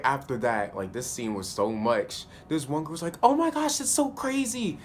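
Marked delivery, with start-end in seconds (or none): 3.2-4.8 high-pitched, excited gush; mock a girl squealing over how crazy it is; imitated over-excited girl. Voicing a gushing girl in the scene.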